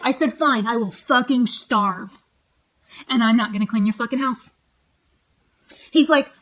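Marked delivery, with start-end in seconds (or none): 0.3-4.5 loud retold retort, slow and emphatic at first; re-enacted angry defiance; defiant comeback. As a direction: dig in and refuse, loudly. Retells her own defiant comeback.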